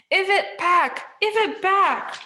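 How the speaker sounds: high, loud shrieking demand; furious old crone yelling; yelling hag. A narrator's reading. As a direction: screech it at her sister in fury.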